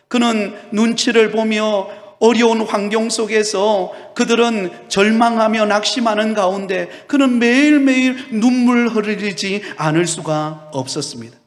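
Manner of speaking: ordinary talk, nothing marked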